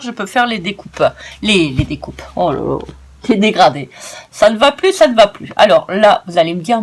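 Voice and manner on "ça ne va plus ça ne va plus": mock despair. Real, not acted. Overexcited about the colours.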